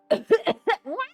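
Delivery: high, loud, startled exclamation; startled what. Retold or imitated. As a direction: react to the sudden cough. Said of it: "So we go".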